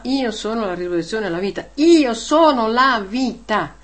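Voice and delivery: emphatic quote. Retold or imitated. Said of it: "aveva detto a Marta".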